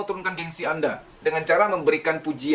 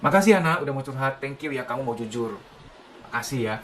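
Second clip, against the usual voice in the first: gentle thanks; 3 semitones lower than usual. Shown as a demonstration. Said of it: "Kalau kamu mampu".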